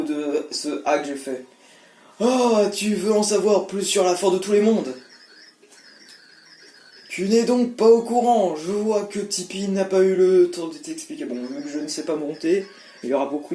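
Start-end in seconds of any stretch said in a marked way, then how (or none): 2.2-11.3 lightly voiced old sage; a hint of an old man. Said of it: "voix de vieux".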